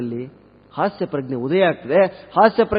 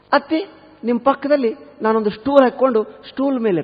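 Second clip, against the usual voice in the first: higher-pitched obedient reply; dutiful new bride; 7 semitones higher than usual. Acted. Bride answers her mother-in-law, high dutiful voice. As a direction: play the polite daughter-in-law, voice lifted.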